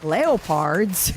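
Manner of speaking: "leopards" as LEH-oh-PARDZ in a Russian accent; drawn-out Russian-accented "leopards". Shown as a demonstration. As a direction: show off "leopards" Russian-style, with a full second syllable. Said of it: "So I said it with the accent".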